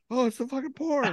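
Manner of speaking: high, laughing whisper of shock; laughing quote. Retold or imitated. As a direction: blurt it out through a laugh. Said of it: "I'm like".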